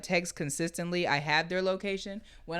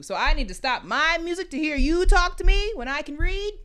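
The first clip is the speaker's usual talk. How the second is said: imitating annoyed self; 6 semitones higher, 4 dB louder than usual. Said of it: "then I get mad".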